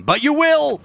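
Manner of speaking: high, loud villain cry; evil villain shout. Pretend. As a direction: snap into a gleeful villain. Sudden villain outburst.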